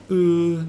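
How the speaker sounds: loud, held dark "ull" in place of "uh". Shown as a demonstration. Teacher contrasts the two L sounds, loud dark L. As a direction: hold a bare dark L, written "uh". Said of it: "a dark L".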